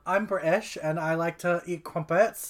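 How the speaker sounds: a shaky attempt at a British accent, T's dropped; bad British accent. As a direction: try a posh British accent and fall short. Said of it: "my attempt at doing a British accent".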